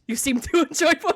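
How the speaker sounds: high mock German accent collapsing into a laugh; accent breaking into laughter. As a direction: start the German accent and crack up. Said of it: "I can't do it".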